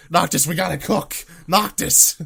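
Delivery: high, loud Jesse-style shout; mock Jesse yell. Joking podcaster imitates Jesse, shouting at Noctis. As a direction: yell it like Jesse from Breaking Bad.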